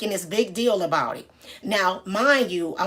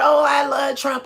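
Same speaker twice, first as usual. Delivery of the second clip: mock shout; 5 semitones higher, 4 dB louder than usual. Lady shouting her support.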